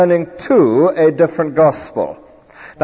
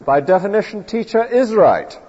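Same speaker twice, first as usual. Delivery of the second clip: put-on school kid's certainty; 6 semitones higher than usual. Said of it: "difficult for the school kid to believe".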